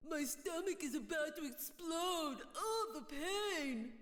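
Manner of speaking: slow, sneering parody of moaning; mock his fake pain; mocking imitation. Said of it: "your lame poor me act".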